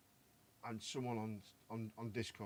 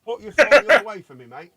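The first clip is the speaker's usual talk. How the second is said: calling out; 9 semitones higher, 19 dB louder than usual. Real, not acted. Calling across to Mike.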